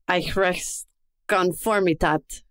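slow, careful attempt at a German word; American accent German. Shown as a demonstration. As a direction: sound out the German word slowly. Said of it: "let's see how good my, my German is".

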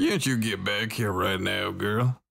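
light Southern drawl, sweet-talking; a hint of a Southern belle drawl. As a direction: coax her in a lazy Southern drawl. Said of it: "I have a southern drawl".

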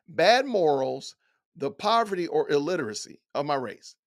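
slow, deliberate mocking reread of "Bad morals"; disbelieving slow quote; incredulous slow quote. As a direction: spell out each word as if it's absurd. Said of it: "then to have the nerve to say".

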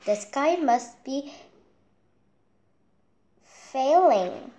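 high, loud alarmed cry; panicked chick. Acted. Chick panicking that the sky falls, alarmed. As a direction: gasp it out in a panic.

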